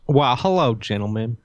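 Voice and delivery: put-on Southern US accent; lightly hammed-up southern altar boy. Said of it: "your southern accent".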